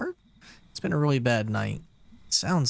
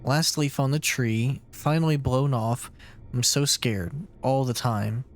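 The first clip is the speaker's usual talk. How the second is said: brooding monologue. Acted. Dark inner monologue.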